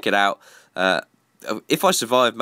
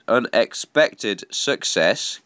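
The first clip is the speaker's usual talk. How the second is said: slowly and deliberately; slow careful repeat; much slower than usual. Real, not acted. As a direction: spell it out slowly after a stumble. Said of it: "God, I can't even talk".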